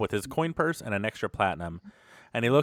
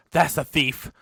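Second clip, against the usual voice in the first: higher, louder accusing shout; indignant elf; 4 semitones higher, 4 dB louder than usual. Acted. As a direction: point at the thief and demand the guard. Panting elf accuses thief.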